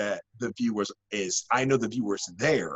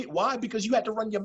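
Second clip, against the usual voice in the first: raised scolding voice; 12 semitones higher, much faster than usual. Retold or imitated. Mock scolding as a parent.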